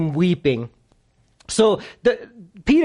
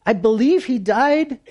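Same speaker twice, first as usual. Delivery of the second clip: high, dragged-out pretend lament; Mary's mock crying; 4 semitones higher than usual. Preacher voicing Mary grieving her friend, mock crying. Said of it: "And she's just crying".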